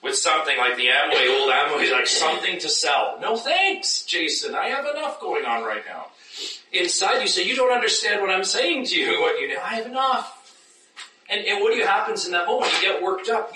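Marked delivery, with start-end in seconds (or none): 3.2-6.1 high, breezy dismissal of a salesman; hammed-up no thanks; mock brush-off. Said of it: "You come as a Christian peddler". 7.4-10.4 high, exasperated inner protest; mock frustrated inner voice; worked up.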